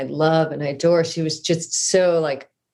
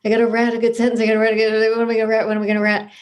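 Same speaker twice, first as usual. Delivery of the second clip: higher, urgent retold fretting, saying "rat" for write; mock panic; 5 semitones higher, much faster than usual. Student fretting over the workshop task, in mock panic. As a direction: act out a flustered student, pitched up.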